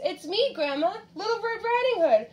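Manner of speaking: high, gentle put-on little-girl voice; gentle disguise. A narrator's reading. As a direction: lift the pitch sweetly to pass as Red. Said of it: "answered in a gentle voice".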